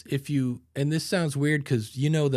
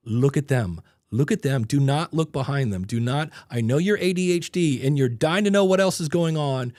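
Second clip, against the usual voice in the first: louder, stern self-talk; scolding inner voice; 5 dB louder than usual. Retold or imitated. Host scolding himself to focus on a fan, louder. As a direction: nag yourself to focus. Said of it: "in my brain, I'm like".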